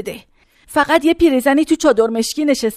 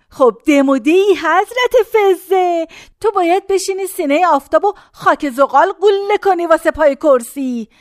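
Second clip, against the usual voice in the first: teasing mock; 3 semitones higher than usual.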